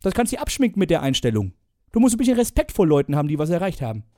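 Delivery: hammed-up Bohlen rant; mock scolding judge. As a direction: tear into the candidate.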